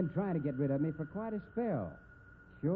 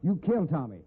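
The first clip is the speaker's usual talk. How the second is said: loud angry threat; 4 semitones higher, 6 dB louder than usual. Acted. Threatening wife with gun.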